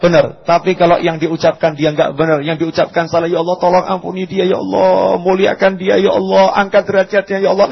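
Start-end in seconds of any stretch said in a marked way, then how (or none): 3.3-7.7 tearful prayer for him. Retold or imitated.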